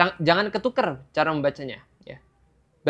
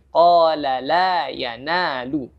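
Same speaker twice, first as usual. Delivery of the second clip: slow qala la yanalu with full two-beat vowels; correct recitation; much slower than usual. Shown as a demonstration. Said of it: "lebih dikurangi".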